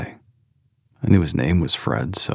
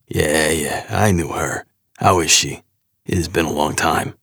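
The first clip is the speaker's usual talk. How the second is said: put-on gruff New York accent. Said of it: "gruff New York accent".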